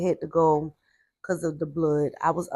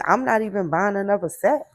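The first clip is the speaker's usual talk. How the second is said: louder, firm imitation of a fed-up grandmother; retold angry grandmother; 6 dB louder than usual. Grandmother refusing to replace the ruined set, mildly heated. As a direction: put some heat in the retold refusal. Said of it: "My grandmother was so hot".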